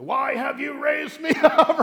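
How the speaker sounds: upset spirit, high loud mock cry; hammed-up protest from the dead, breaking into laughter; Samuel. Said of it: "And he's upset".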